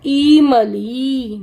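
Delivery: ईमली with the first ee stretched out long and slow; wrong long vowel. Shown as a demonstration. Teacher shows children the wrong word, overlong first vowel. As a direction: drag out the opening ई of ईमली. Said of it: "ये wrong है".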